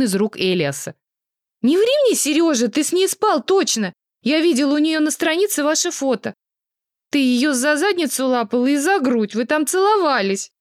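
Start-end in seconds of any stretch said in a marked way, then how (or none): 1.6-10.5 high, shrill-edged accusation; accusing. Acted. Girlfriend accusing ex on video call, high and furious. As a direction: throw the cheating in his face.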